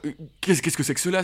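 a touch of startled alarm, voice lifting; startled cry. Acted. Merry wakes in strange clothes, mildly startled outcry. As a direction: blurt it out, bewildered. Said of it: "s'écria Merry".

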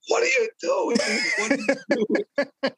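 high, startled disbelief with a laugh; shocked supervisor. Retold or imitated. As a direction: play the boss walking in on chaos, voice jumping up.

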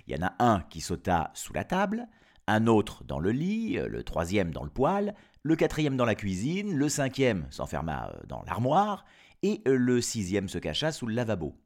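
lively storyteller's list; story narration. Acted. Narrator placing each kid in hiding, story narration. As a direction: count off each item with theatrical care.

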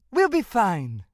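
mildly curt, irritated reply; a touch of impatience, brushing him off; snapping. Acted. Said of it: "Shelley snapped".

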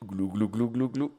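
repeated glou glou gulping sounds; mock glugging noise, syllable by syllable; gobbling turkey voice. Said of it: "le truc insupportable que t'aimes faire".

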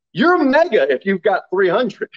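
tongue-in-cheek exaggeration; sarcastic. Real, not acted. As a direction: toss it out as a mock boast, laughing after. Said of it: "I say that sarcastically".

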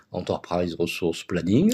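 "Enterprise Resource Planning" slow, in a heavy French accent on English; bad English accent. Shown as a demonstration. Guest explaining E R P to host in bad French-accented English. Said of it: "avec un très mauvais accent anglais".

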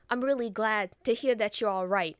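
lightly voiced mobster; a touch of gangster emphasis; imitating a tough guy on the phone; Joe Pesci. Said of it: "I imagine Joe Pesci".

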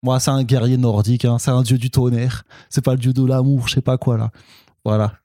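fan's rant in a fake Alsatian accent; mock Alsatian accent, sliding from Quebec; botched Alsatian accent. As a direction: grumble about the film in hammy Alsatian French. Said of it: "ça part en accent alsacien".

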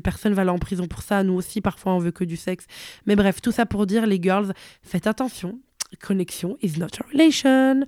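hoarse and sick; losing voice. Real, not acted. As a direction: voice worn out from illness. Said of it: "comme j'ai plus de voix et que je suis un peu malade".

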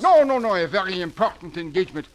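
put-on panicked French accent; frantic French dandy rushing off.

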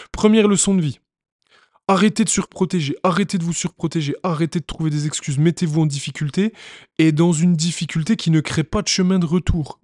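loud, punchy preaching of a life lesson; rally the audience; forceful motivational. Real, not acted. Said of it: "motivational lesson delivered with force".

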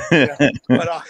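slow words dissolving into laughter; laughing. Real, not acted. Joking to the hosts about obeying mom, laughing. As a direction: laugh the punchline out.

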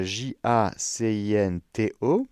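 J A C I N T O spelled slowly letter by letter. Shown as a demonstration. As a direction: spell out J A C I N T O, one letter at a time. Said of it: "qui s'appelle Jacinto". (épeler lentement J A C I N T O)

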